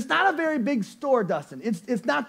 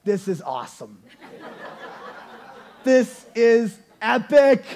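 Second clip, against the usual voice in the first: inner thrill; 3 dB louder than usual. Retold or imitated. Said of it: "I'm thinking in my mind".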